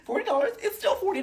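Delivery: laughing at the meagre refund; laughing disbelief. Real, not acted. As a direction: scoff at the tiny sum. Mocking small refund.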